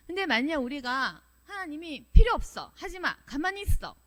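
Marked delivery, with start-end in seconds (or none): 2.1-4.0 high commands, loud at the start; blunt refusal. Acted. God tells a servant to stay put, blunt command. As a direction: play God ordering a servant to stop. Preacher voices God forbidding service.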